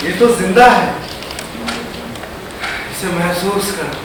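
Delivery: soft, low imagined voice of someone who understands; hushed plea. Acted. Imagined onlooker finally sees the artist alive, hushed plea. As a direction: say it low, fading to almost nothing.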